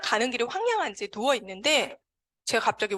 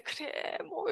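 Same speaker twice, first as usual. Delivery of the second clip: hushed, accepting murmur; indulgent acceptance; 6 semitones higher, 11 dB quieter, much slower than usual. Retold or imitated. God accepting a pleading child's tantrum, softly indulgent. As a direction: give in softly, like a parent to a child. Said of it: "막 받아주시는 느낌이면서".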